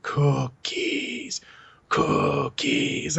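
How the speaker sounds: a hint of Vader, breathy and drawn out; lightly voiced Darth Vader, rising at the end. Daughter doing Vader while telling dad a joke, lightly voiced Vader. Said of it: "Like, his voice".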